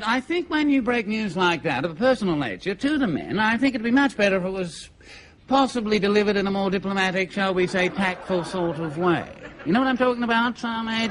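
lightly voiced, tactful officer; a hint of a courteous colonel choosing words. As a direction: hesitantly advise a subordinate on diplomacy. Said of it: "The colonel said".

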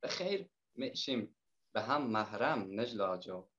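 Herati dialect poem read in the poet's own voice; reciting a Herati folk love poem to the guests in Herati accent. Acted. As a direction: recite lightly in Herati Persian. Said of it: "به لهجهٔ هراتی گفتم به خوانش بگیرم".

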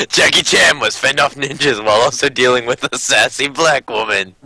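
mock trailer announcer, lightly done; movie trailer voice. Reading a card answer to players in a mock trailer voice. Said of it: "movie trailer voice".

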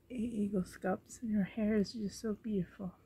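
hoarse, rough throat; frog in throat. Real, not acted. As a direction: speak through a frog in the throat. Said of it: "Sounds like I have a frog in my throat".

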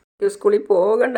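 a hint of a crying little girl. A narrator's reading. Little girl refusing school to her grandmother, mildly crying. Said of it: "നിയക്കുട്ടി കരഞ്ഞുകൊണ്ടിരിക്കുകയാണ്".

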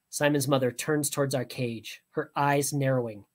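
usual speaking voice

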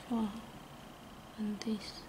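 usual speaking voice

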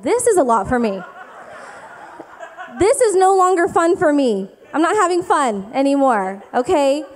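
half-laughing exasperation at her husband; laughing exasperated wife; laughing complaint. Retold or imitated. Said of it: "And I was like".

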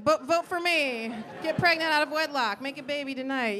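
rally the crowd like a mock candidate; mock campaign pitch. Mock campaign speech to the audience.

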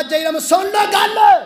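high, loud call for attention; commanding shout. Real, not acted. Preacher demands the congregation's attention, commanding shout. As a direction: call out to the whole crowd.

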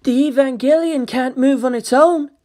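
alarmed scientist's outburst; shocked protest. Acted. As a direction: insist it can't happen.

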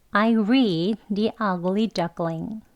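I read The Ugly Duckling very slowly, word by word. Shown as a demonstration. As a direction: spell the sentence out slowly for learners. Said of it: "천천히 해볼게요". (천천히 또박또박)

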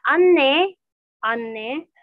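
anne with the double n held long, slow; Turkish word demo. Shown as a demonstration. Teacher drilling anne for the class, slow and careful. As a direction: lean on the nn in anne. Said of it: "Anne itu ibu".

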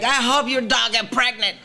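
stupid comment. Retold or imitated. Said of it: "a stupid comment like".

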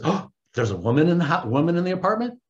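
gasp, then rising incredulous question; mock perked-up interest. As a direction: imitate someone suddenly all ears. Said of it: "that perks up, that perks up, uh, Howard's ears".

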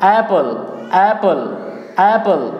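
एप्पल repeated as "AE-pul", single p; correct pronunciation. Shown as a demonstration. Teacher drilling learners, correct pronunciation of एप्पल as "AE-pul". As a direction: drill एप्पल with open first vowel, falling each time. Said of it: "एप्पल नहीं बल्कि एप्पल".

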